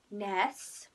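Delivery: low, spaced-out Welsh impression; Welsh accent. Quoting Gavin and Stacey to viewers, mock Welsh accent. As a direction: put on a deadpan-paced Welsh accent, word by word. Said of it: "because it's the Welsh accent".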